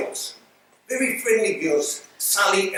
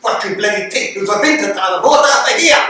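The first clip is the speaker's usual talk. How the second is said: laughing retort; 7 dB louder than usual. Retold or imitated. Quoting the friend's retort.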